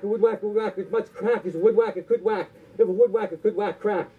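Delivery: rhythmic, repetitive tongue-twister patter; tongue-twister recital. Acted. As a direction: rattle it off in a singsong rhythm.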